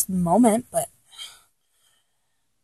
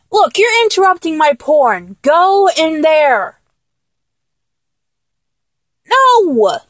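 annoyed protest; 4 semitones higher than usual. Acted. Sending an interrupting lover to the next room, annoyed.

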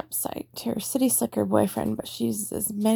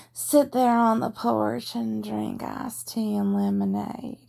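slow, relaxed Georgia Southern drawl, lightly done; lazy Georgia Southern accent, like sipping iced tea on the porch; slower than usual. Shown as a demonstration. Showing viewers the laid-back Georgia Southern accent, slow. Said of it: "Like you're from Georgia".

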